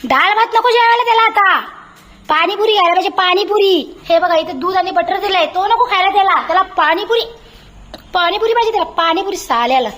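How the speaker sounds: high, teasing mock telling-off; mother teasing her dog about pani puri; mock scolding. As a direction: wag a finger at a spoiled pet in fun.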